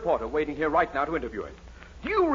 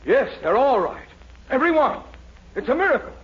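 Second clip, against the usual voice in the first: amazed excitement; 7 semitones higher than usual. Acted. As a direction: marvel aloud as it sinks in. Dean discovers all answers right.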